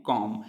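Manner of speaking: कॉम ending on m, no b; silent b. Shown as a demonstration. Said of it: "क्या पढ़ते हैं?". (बी की आवाज़ के बिना कॉम)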